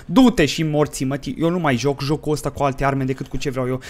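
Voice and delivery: loud rage building to a high yell; angry rant. Real, not acted. Player fed up with the game's weapons, angry outburst. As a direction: blow up as the complaint goes on.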